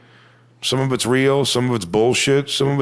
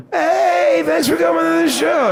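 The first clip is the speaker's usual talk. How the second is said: much higher, louder, sugary fake-polite greeting; fake-nice high voice; 4 dB louder than usual. Comic greeting a rude fan, mock fake-nice high voice. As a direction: chirp it like an overly nice host. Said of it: "I still turn around and go".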